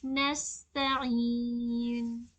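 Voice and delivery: नस्तईन very slow with a distinct स and ऐन; clear seen. Shown as a demonstration. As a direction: sound out every letter of नस्तईन. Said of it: "सीन की आवाज़ को वाज़ेह करनी है".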